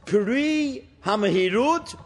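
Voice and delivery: slow, drawn-out Sephardic Hebrew; Sephardic accent. Retold or imitated. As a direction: quote it slowly in a Sephardic accent. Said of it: "used to say it in a Sephardic accent".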